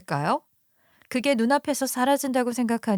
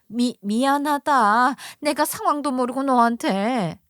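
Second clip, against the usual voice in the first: grudging apology; 2 semitones higher than usual. Acted. Mother-in-law stammering an apology to daughter-in-law. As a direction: force out the apology.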